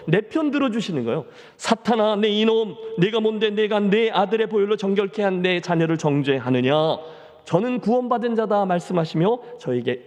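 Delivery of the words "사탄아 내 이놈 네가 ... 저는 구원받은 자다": a loud, commanding rebuke of Satan. Acted. Preacher voicing God loudly scolding Satan, commanding. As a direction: thunder it at Satan like a judge. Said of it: "큰 소리로 나타나셔서 사탄을 꾸짖으세요".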